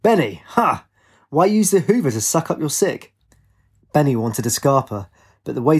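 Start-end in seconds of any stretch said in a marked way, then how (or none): 0.0-3.1 higher, punchy rhythmic call; mock bellow in a sing-out rhythm. A narrator's reading. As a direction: call out teasingly, pitch jumping up. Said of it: "he bellowed rhythmically".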